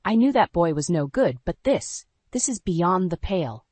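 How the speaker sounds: a mother's indignation, held back; furious mother. Acted. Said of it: "her fury growing with each word".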